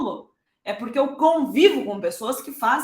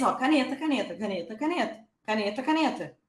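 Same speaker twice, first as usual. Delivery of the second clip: parent repeating word; 4 dB quieter than usual. Shown as a demonstration. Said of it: "Porque toda vez".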